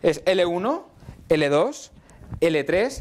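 rattled off as a quick memory chant; said quickly. Shown as a demonstration. Teacher rattling off the levels for students, quick. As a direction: run the levels together fast. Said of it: "Lo voy a decir muy rápido".

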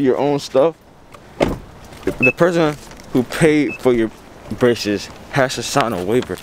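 mask over mouth; slightly muffled masked speech; through a face mask. Real, not acted. Seen 0: blue surgical mask covers speaker's mouth and nose, seen repeatedly.

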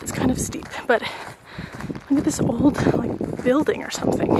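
winded, half-whispered while climbing; short puffing breaths between words. Real, not acted. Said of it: "sorry, I'm out of breath".

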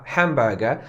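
hamburger said British; British accent. Shown as a demonstration. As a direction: hamburger with dropped r, hemb-e-ge. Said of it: "przez Brytyjczyka".

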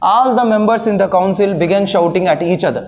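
very slow, word-by-word sentence reading; slow reading aloud. Shown as a demonstration. Teacher reads the exam sentence very slowly to students. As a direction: read the example sentence out slowly for the class. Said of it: "next ఇంకో చూడండి".

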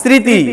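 "স্মৃতি" with the written m left silent; silent মফলা. Shown as a demonstration. Teacher checks a word with pupils, স্মৃতি with silent মফলা. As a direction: say স্মৃতি as sriti, no m. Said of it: "মফলা উচ্চারণ আছে?".

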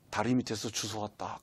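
low, hushed aunt's confession; hushed secret. Retold or imitated. Aunt tells the boy a secret, hushed and low.

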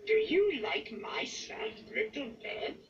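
high puppet character voice; Grover. A narrator's reading. Grover showing off his bed to Ernie, high character voice. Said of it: "Grover asks".

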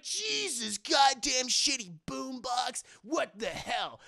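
bully yelling after being hit by shrapnel; angry yell. Retold or imitated. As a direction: curse the broken boombox.

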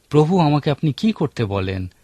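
করতে weighted, কি lifted; stress on doing. Shown as a demonstration. Preacher showing the stress on doing in Paul's question. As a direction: press on কি করতে as the action to do. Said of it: "কাজ করার উপর জোর দিতে পারি".

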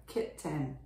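kitten as kit-ten, e fully sounded; over-pronounced. Shown as a demonstration. Teacher confirming the phonics reading, over-pronounced. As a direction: keep the second vowel of kitten a clear e. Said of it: "発音をもうちょっと濃ゆめにすると".

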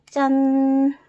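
loud, high ta-da; proud little ta-da; ta-da reveal. Acted. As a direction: pop the reveal out brightly. Reveal of finished piece.

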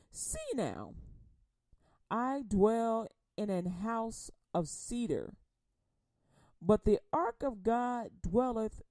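slow, measured King James reading; scripture reading. Acted. Preacher reading Second Samuel to congregation, slow and solemn. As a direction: read it like the pulpit Bible.

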